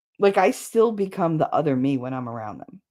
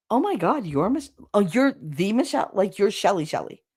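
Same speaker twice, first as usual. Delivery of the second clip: mock gushing; 4 semitones higher than usual. Imitating people meeting her.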